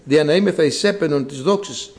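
measured, even liturgical reading; scripture reading. Real, not acted. Preacher reading Ephesians to the congregation, even formal reading. Reads the scripture passage aloud.

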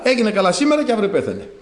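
chuckling through a quick punchline; amused, fast, laughing aside to the congregation. Real, not acted. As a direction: laugh as you tell the ironic twist. Preacher jokes about the king's death.

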